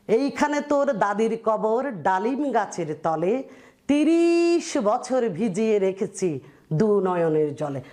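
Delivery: slow, measured reading of a verse; slow poetic recitation; poem recitation. Acted. Teacher recites Jasimuddin poem.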